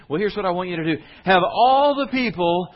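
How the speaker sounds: high, loud voice of God giving orders; booming command. Acted. God answers the people asking what to do, booming command. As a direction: proclaim it big, stretching the final words.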